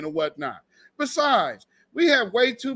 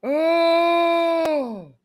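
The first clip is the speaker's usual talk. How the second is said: shouted oh; 7 semitones higher than usual. Real, not acted. Shouted reaction to the clip.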